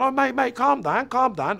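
hurried, high attempt to pacify; urgent calming plea. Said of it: "The geezer's even gone".

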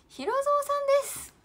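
high, loud announcing welcome; a high, loud shout-out to a new viewer; excited welcome. Real, not acted. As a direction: call out the name brightly like a host. Greeting a viewer on stream.

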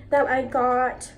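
talking through hiccups; hiccupy pause mid phrase; hiccuping. Real, not acted. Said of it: "Sorry, I'm hiccuping".

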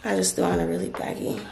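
breathless post-op talk; short of breath. Real, not acted. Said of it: "really out of breath".

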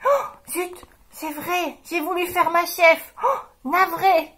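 the mule apologises, sheepish; sorry mule. Acted. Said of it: "dit la mule". (la mule gênée qui s'excuse)

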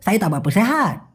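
run-together Malaysian slang. Shown as a demonstration. Teacher showing the everyday reply, in slurred Malaysian slang. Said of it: "আরও বলে".

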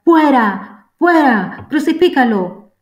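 high, loud furious chant; crowd shouting. A narrator's reading. Crowd rejecting their king before Pilate, loud high shout. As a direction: roar it at the judge like a mob. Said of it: "Ellos gritaron".

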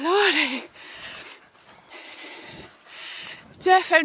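out of breath from the climb; puffing between words; shallow breathing. Real, not acted. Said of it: "excuse the heavy breathing".

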